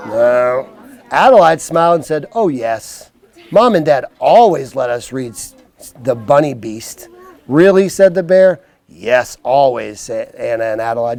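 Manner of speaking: slow, clear storybook voice; reading to children. Acted. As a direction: read it like a bedtime book. Reads picture book to kids.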